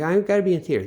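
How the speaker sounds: a hammed-up would-be actor; mock theater wannabe. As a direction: parody an eager drama kid. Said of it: "They're like".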